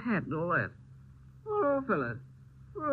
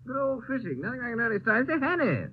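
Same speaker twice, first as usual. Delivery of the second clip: loud, tipsy cheer at a closed door; drunk; 6 semitones higher, 3 dB louder than usual. Acted. Drunk friend shouting at his door, loud tipsy cheer. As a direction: rouse a sleeping friend, well oiled. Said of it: "Must be drunk".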